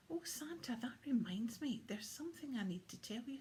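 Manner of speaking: put-on excited child voice; eager boy. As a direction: blurt it out like a boy remembering. William suddenly remembering the hunter.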